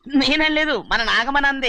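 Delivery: hasty, high-voiced passing of blame; high-pitched denial. Servant disowning gossip to his master, high-pitched denial. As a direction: jump up high to deny it.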